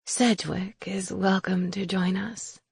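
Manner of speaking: soft, slow crone voice; a quiet, slow witch remark; old witch voice. Acted. Witch Raisa speaks.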